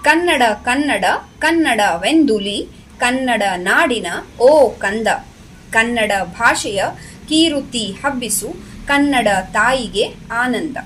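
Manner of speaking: measured, rhythmic verse reading; lilting classroom poem reading; poem recitation. Shown as a demonstration. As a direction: recite each phrase clearly for pupils to follow. Recites the first stanza.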